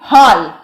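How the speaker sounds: हॉल said with an open "aw" like English hall; English aw vowel. Shown as a demonstration. Teacher explains the borrowed sound, हॉल with open "aw". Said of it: "तो यह हो जाता है".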